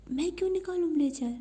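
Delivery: put-on girl balking at being told to undress; indignant protest. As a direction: refuse it with a quick indignant burst. Khushi refuses to take off blazer.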